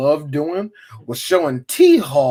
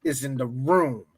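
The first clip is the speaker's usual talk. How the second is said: mock outraged parent; slower than usual. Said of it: "I'm like this".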